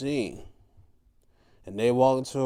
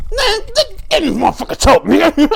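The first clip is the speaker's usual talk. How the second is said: high shouted trash talk; yelled wrestler quote; 13 dB louder, faster than usual. Retold or imitated. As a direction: bellow it like a brawler ready to fight. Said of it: "it's like".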